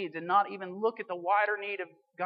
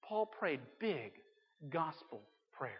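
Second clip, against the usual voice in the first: each word drawn out slowly; slow emphatic refrain; 3 semitones lower, 8 dB quieter, slower than usual. Real, not acted. Preacher hammering his key phrase to the church, slow and weighty. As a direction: stamp the refrain home word by word.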